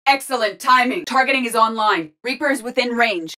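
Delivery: urgent status report. Acted. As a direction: report to the squad under fire. Combat status callouts.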